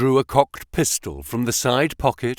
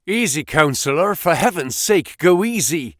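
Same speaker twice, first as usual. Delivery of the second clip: raised, pleading call to stop; urgent cry; 6 semitones higher than usual. A narrator's reading. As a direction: urgently hold him back. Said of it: "he cried as he dragged him".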